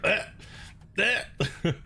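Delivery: mock gag noises; gagging ugh. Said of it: "He started gagging".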